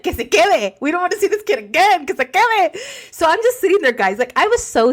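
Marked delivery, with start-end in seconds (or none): 0.0-2.8 high-pitched, hammed-up dismissal of a sibling; mock kids' complaint. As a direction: imitate fed-up kids in a higher pitch. Imagined kids rejecting their brother.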